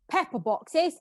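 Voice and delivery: a puzzled rising question. Acted. Maid puzzling over a misprinted word, questioning rise. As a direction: query the odd word with a rise. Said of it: "The upper boxes".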